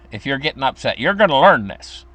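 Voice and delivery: mother keeping her son seated until he learns; strict mother. Retold or imitated. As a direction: lay down the law from the chair. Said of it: "And she'd say".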